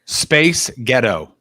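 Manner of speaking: put-on "Space ghetto" in a light Scottish accent, sounding like "Spice Girl". Shown as a demonstration. Asked by cohost to say the phrase, in a light Scottish accent. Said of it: "you just said Spice Girl in Scottish".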